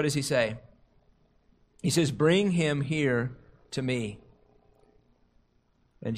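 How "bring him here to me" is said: slow, soft and kind, softer than the lines around it; compassionate. Retold or imitated. Jesus calls the boy over, compassionate and slow. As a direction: gently call the boy to him. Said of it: "giving a compassionate response".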